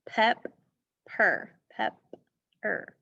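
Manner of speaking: "Pep", "per" said as two separate beats with a gap; split into syllables. Shown as a demonstration. Teacher showing pupils what the syllables are, split into syllables. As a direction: break it apart: "Pep", pause, "per". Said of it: "What are the syllables?".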